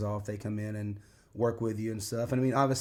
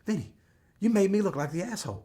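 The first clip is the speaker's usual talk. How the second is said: laughing complaint; 10 semitones higher, 4 dB louder than usual. Retold or imitated. Trainer complains, laughing heard.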